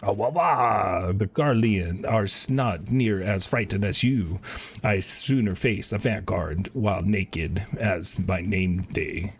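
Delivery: slow whiny wah wah, then a lightly voiced boastful soldier; mocking soldier. A soldier taunting a frightened recruit, mock whiny. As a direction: sneer at the coward.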